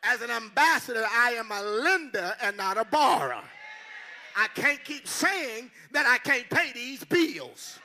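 loud, emphatic preaching; full-force sermon delivery. Acted. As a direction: drive it home to the congregation.

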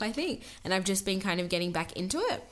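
talking while chewing; words round corn chips; mouth full. Real, not acted. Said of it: "I can hear you chewing".

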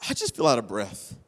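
subdued retelling of a weary confession; guilty confession. Retold or imitated. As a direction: confess it quietly, as if out of breath. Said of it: "you could almost feel the guilt in their voice".

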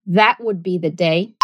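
"That would be the day" in clear General American; General American accent. Shown as a demonstration. Teacher repeats the line in General American. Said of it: "repetir com o General American Accent".

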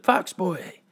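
mother calling her son's name. Acted. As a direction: call him back sharply. Mother calls out to son.

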